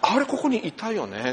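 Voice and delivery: mock puzzled, laughing; chuckling disbelief; laughing retold question. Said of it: "って".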